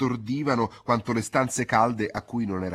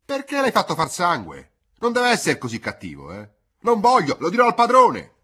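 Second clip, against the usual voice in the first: loud, much higher furious scolding; old woman shouting in anger at the boy; rising to a very high, very loud threat; angry shout; 10 semitones higher, 11 dB louder than usual. Acted. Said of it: "gridò con collera".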